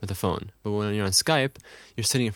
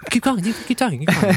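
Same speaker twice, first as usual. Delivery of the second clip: distracted keep talking; 9 semitones higher, faster than usual. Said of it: "I'll do it to you".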